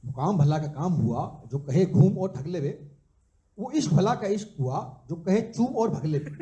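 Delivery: measured, rhythmic verse with a lilting refrain; live poetry recital; poem recitation. Acted. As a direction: recite it as a couplet, landing on each rhyme.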